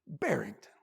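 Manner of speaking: a hint of a low, gentle wolf; lightly voiced wolf. Wolf asks the crying bunny, gently. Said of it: "the wolf speaks".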